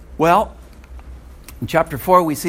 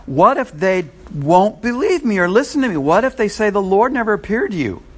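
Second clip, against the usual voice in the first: higher, louder fretful protest; 6 semitones higher, 5 dB louder than usual. Retold or imitated. Preacher acting Moses protesting to God, louder and higher. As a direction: push back anxiously, voice raised. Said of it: "Moses protested".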